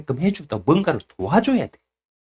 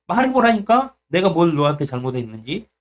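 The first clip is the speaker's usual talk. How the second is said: a touch of mock-stern questioning; God scolding; 2 semitones higher than usual. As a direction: press for an answer, mildly scolding. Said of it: "막 그거 혼내신다니까".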